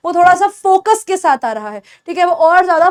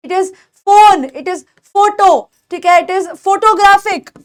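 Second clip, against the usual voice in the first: phone, photo and photographic said slowly with a clear f; slow model sentences; much slower than usual. Shown as a demonstration. Teacher slowly modelling ph words. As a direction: spell out each word slowly for the class. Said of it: "कुछ भी word ले लो".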